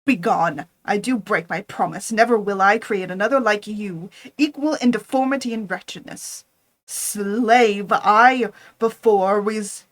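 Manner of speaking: loud, firm refusal; defiant anger. Acted. Frankenstein defies his creature, loud and angry. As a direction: throw the commands at him.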